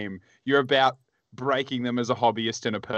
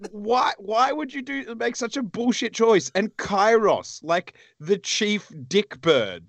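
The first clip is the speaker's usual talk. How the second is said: put-on a higher, slowed, laughing stab at a Zimbabwean accent; bad Zimbabwean accent; 8 semitones higher than usual. Teasing James about his pick in a bad Zimbabwean accent. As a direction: ham up a Zimbabwean accent to rib a friend. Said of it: "worst Zimbabwean accent I've ever heard".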